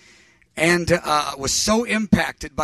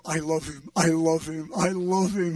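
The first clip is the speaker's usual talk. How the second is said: smitten; 5 dB quieter than usual. Retold or imitated. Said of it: "I am falling in love".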